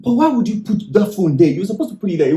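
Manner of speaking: serious reproach, stopping short of shouting; serious, not joking. Acted. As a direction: pull them up on it without shouting. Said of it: "expressing myself that I'm not joking, I'm serious".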